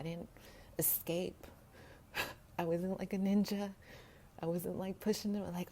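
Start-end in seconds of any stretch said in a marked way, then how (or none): 2.6-3.7 joking. Real, not acted. Joking aside.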